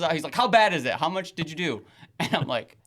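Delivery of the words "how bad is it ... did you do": retold angry questioning. Acted angry dad questioning son.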